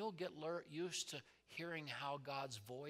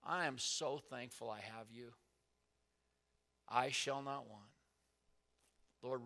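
praying aloud. Shown as a demonstration. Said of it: "you know how you're praying".

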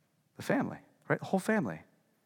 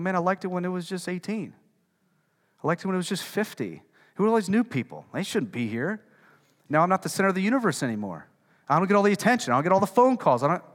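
slightly raised, put-out complaint; mock grumbling; 3 semitones higher, 4 dB louder than usual. Early church member resenting new people, mock grumbling. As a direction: imitate a member griping, building louder. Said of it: "we grumble".

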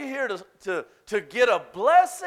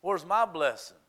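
mock entitled volunteer. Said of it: "it would shape up like this".

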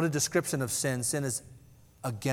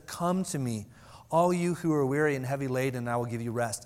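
gentle invitation. Pretend. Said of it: "gentle and, and lowly".

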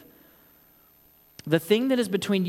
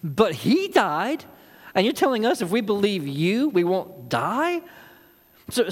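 indignant mockery; 4 semitones higher than usual. Preacher voicing indignant Jews.

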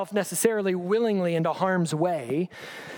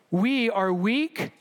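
sarcastic; 2 semitones higher, much slower than usual. Retold or imitated. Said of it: "read sarcasm".

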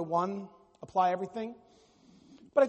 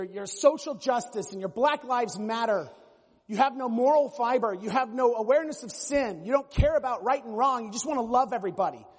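louder, finger-wagging mock rant; hammed-up self-righteous lecture, picking up pace; mock scolding conservative; 4 dB louder than usual. Pastor imitating a conservative berating liberals, loud mock rant.

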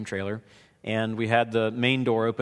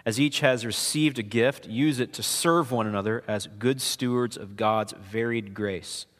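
scripture reading. Acted. Reads scripture aloud to congregation.

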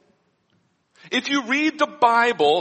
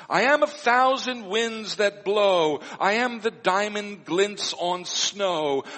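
poem reading. Acted. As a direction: let "I am the diamond glints on snow" float gently, unhurried. Pastor reads funeral poem aloud.

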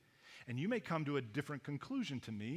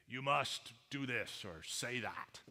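bridge troll; slower than usual. Retold or imitated. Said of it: "They all sound like that".

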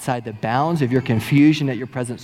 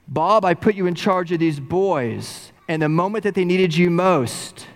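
scolding rebuke; 2 semitones higher than usual. Retold or imitated. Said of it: "rips in to this young boy".

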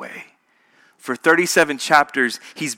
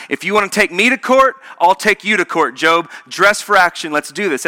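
confrontational God; 3 semitones higher than usual. Pretend. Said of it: "It sounds like, here's what God's about to do".

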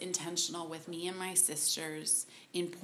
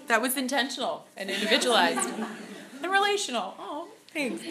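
high, fast, loud laughing talk; real amused chatter; 5 semitones higher, 7 dB louder, faster than usual. Real, not acted. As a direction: keep talking through the laugh. Still laughing at the gift.

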